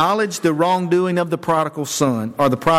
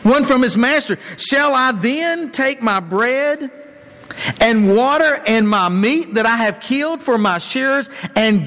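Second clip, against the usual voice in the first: rude Nabal; 4 semitones higher than usual. Retold or imitated. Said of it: "Nabal answered David's servants and said".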